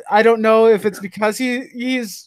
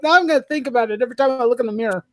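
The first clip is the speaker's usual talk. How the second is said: higher, quicker, mock-annoyed complaint; exasperated retort; 4 semitones higher, faster than usual. Griping to a buddy who mentioned gray hair, exasperated. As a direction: retell an exasperated comeback in a rush.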